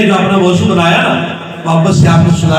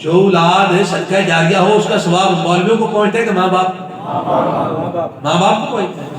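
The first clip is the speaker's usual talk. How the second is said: quiet repeated question; 7 dB quieter than usual. Real, not acted. Preacher letting parents answer for themselves, asking softly. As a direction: drop the force and ask it quietly.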